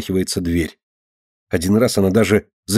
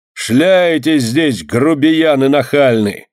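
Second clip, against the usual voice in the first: high, drawn-out angry holler; angry scolding; 5 semitones higher, 3 dB louder, much slower than usual. A narrator's reading. Yardkeeper to beggars at the gate, angry. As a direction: stretch the insults in a raised voice.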